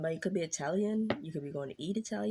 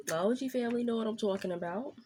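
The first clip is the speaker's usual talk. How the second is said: what I'm talking about in a quick New York accent; playful New York accent, talking fast; 5 semitones higher, faster than usual. Shown as a demonstration. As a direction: toss it off like a New Yorker. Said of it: "Why I say it like that? Somebody from New York".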